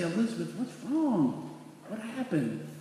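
soft, gentle questioning; hushed retold concern; concerned father. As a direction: act out a dad softly checking on his crying child. Father comforting his crying daughter.

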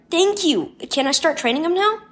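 put-on high, eager boy's voice; excited cry. A narrator's reading. Boy to parents on getting Robo Dino, excited. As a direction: gush thanks, then ask eagerly. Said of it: "James cried".

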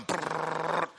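soft rattling brrr like a machine gun; machine gun noise. Retold or imitated. Pastor mimicking his racing heart as gunfire, soft rattle. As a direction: rattle it off like rapid fire. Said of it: "I feel like a machine gun".

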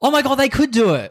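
high, thrilled realization; light up at a great idea; excited. Real, not acted. Sudden casting idea excitement.

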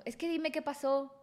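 mock drunk boyfriend demanding answers; aggressive demand. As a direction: press her hard for an answer. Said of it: "empezó a ponerse agresivo".

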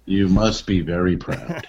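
slow, drawn-out sarcastic congratulation; Letterman, sassy sarcasm. Retold or imitated. Host teasing a rock star about drugs, sassy sarcastic impression. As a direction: imitate a talk-show host's dry, sassy dig. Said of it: "In his sassy, sarcastic way that only Letterman can do".

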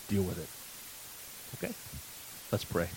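slow, hushed whisper for emphasis; slow emphatic whisper; whispered point. Real, not acted. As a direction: lean in and breathe the words. Sermon point delivered for emphasis.

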